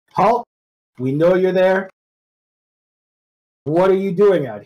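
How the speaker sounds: high-pitched voice calling out. Playing a character in a role-play game, speaking Goblin to strangers, calling out. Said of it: "I will call out in Goblish".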